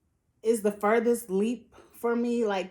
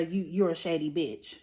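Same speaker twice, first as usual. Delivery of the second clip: mock dismissive quote; 5 semitones lower, 4 dB quieter than usual. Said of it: "That moment didn't call for a".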